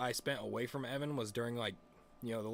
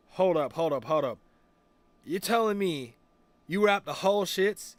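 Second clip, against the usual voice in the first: loud, raised voice of an incredulous friend; mock indignation; 6 semitones higher, 10 dB louder than usual. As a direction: challenge him loudly, as the buddy. Friend confronts him, retold.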